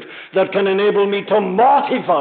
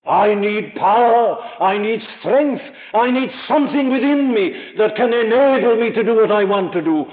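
crying out; 4 semitones higher than usual. Acted. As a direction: beg for strength from the gut. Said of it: "and I cry out".

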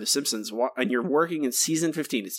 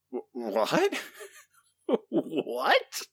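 laughing disbelief; slower than usual. Real, not acted.

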